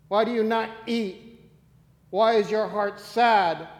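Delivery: scripture reading. Acted. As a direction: read the passage steadily and with weight. Reads First Samuel aloud.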